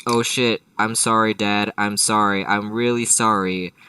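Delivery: lightly hammed-up begging for forgiveness; panicked apology. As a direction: blurt out repeated apologies as a kid in trouble. Acted son apologising to angry dad.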